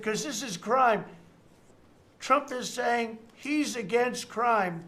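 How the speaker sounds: loud, high, slow mock alarm; imitating screaming. Consultant warning his party about the crime issue, mock screaming. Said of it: "this guy's screaming".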